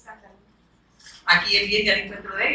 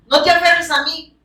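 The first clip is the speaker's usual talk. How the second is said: voicing Jesus; 6 semitones higher, 3 dB louder than usual. Jesus speaks to Mary at tomb.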